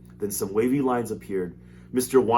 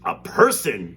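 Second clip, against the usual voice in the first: mild surprised cry; 7 dB louder, much slower than usual. Acted. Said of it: "cried Mister Wonka".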